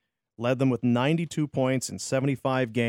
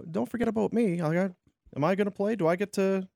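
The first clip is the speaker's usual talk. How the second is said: mock small voice, pitched up, asking to be included; Rantanen; 6 semitones higher, faster than usual. Host voicing an overlooked player, higher pleading voice. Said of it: "Rantanen is like".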